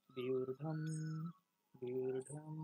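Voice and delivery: বিঊর্ধ্বম loud, with long ū and held m; Sanskrit pronunciation. Shown as a demonstration. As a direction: model বিঊর্ধ্বম firmly, stretching the ending. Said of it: "উচ্চারণটা হবে বিঊর্ধ্বম". (বিঊর্ধ্বম জোরে টেনে সংস্কৃত উচ্চারণে)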